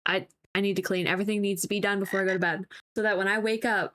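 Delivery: fast, run-on retelling of compulsive urgency; cleaning frenzy. Retold or imitated. Wife telling husband she must clean before bed, mock-frantic. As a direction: hurry through it without a break. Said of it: "it's like this weird, like, uh, cleaning".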